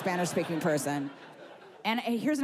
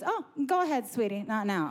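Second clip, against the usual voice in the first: lightly voiced diner waitress brush-off; imitated condescending sweetie-talk; older diner waitress; 2 semitones higher than usual. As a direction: wave the customer off like a seasoned waitress. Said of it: "like you're an older waitress at a diner".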